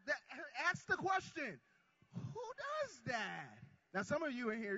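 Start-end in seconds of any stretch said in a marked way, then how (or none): 2.1-3.6 slow drawn-out. Acted.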